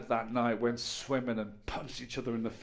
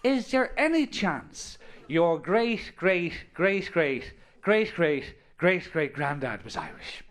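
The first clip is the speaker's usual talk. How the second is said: drawn-out, higher-pitched hopeful question; mock doorbell plea; 5 semitones higher, 3 dB louder, slower than usual. Football scouts at a player's door, mock hopeful plea. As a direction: lay out each word slowly, pitch easing down. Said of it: "they ring on their doorbell and go".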